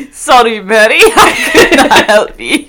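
loud, hammed-up Scottish rising high and slow; terrible Scottish accent. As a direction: overdo a dreadful Scots accent through laughter. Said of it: "the worst Scottish accent I've ever heard".

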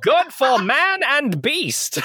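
high, slow, grand ad slogan; old school announcer. Acted. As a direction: draw out the slogan like a vintage announcer. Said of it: "old school announcer voice".

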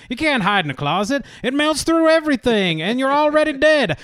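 newsboy voice. Acted. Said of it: "He threw that good newsboy voice out there".

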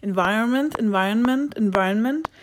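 "environment" repeated with a rising tune each time; pronunciation practice. Shown as a demonstration. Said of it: "I can't pronounce the words".

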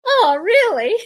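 high mock-offended oh really; sarcastic. Teasing girls who called Australians loud.

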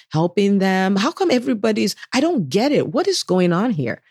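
imitating a baffled sister-in-law.

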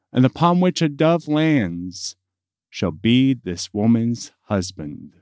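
measured storyteller with long pauses; unhurried, deliberate legend telling; story narration. A narrator's reading. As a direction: narrate it like an old legend, phrase by phrase.

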